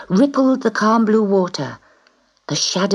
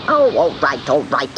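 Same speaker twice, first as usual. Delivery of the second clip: snapped; 4 semitones lower than usual. Acted. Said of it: "snapped the witch".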